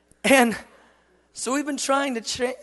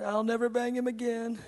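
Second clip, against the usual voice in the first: put-on contrite little boy; 7 dB quieter than usual. Son's sorry promise, acted.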